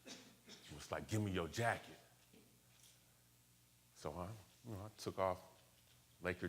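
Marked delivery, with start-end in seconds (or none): 1.1-2.0 understated retold robbery demand; matter-of-fact imitation of a mugger; retold robber's demand. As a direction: quote a mugger's demand without raising the voice. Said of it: "put it to my throat".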